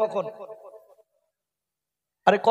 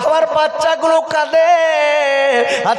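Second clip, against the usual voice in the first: a hint of a grieving mother begging the prophet for help; mildly lamenting old woman; wailing widow. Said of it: "বলে".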